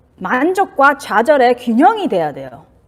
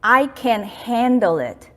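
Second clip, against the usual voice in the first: very slow, deliberate "I can handle it" with weight on "I"; calm self-talk; much slower than usual. Shown as a demonstration. Doctor teaching a self-talk phrase, slow and deliberate. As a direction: say "I can handle it" slowly, every word placed. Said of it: "이거 무조건 연습해야 돼요".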